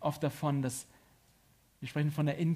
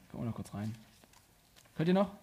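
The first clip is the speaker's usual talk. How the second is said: ordinary talk, nothing marked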